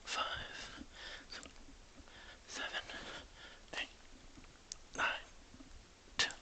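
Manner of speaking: strained counting mid-exercise; counting through sit-ups. Real, not acted. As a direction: count out each rep under strain. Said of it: "Just doing these sit-ups real quick".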